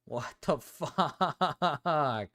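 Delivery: hugely stretched, broken-up last word; long, juddering groan of disbelief; exasperated swearing. Real, not acted. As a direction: drag the curse out in wavering pulses. Exasperated swearing after game loss.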